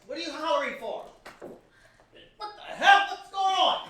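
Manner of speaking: very loud, high angry bellow; shouting. Acted. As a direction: roar at the commotion. Father bursts in shouting.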